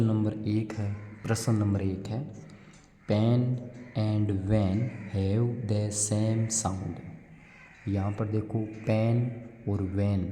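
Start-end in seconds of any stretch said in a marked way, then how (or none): 3.1-7.0 very slow, deliberate English read; slow classroom read-aloud; reading a question aloud. Acted. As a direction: read the worksheet question word by word for children. Reads worksheet question slowly.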